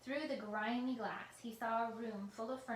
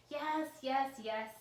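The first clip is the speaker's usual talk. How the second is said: quickly; 4 semitones higher, 7 dB louder, much slower than usual. A narrator's reading. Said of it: "said Doctor Reaper quickly".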